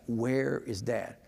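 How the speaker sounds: put-on slowly drawn-out worried child's question; mock mild panic. Father imitating his small son lost in the store, mildly panicked. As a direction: stretch it out like a lost kid, lightly imitated. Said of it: "he's now panicking".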